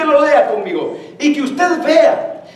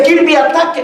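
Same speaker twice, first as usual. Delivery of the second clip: raised, urgent order to a dog; louder, higher playful command; attack command; 4 semitones higher, 4 dB louder than usual. Retold or imitated. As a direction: sic the dog on them in a mock command.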